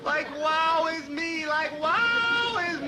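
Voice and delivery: slow drawn-out hammed-up grief; mock lament. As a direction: wail like an overdone mourner. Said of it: "please stop that carrying on".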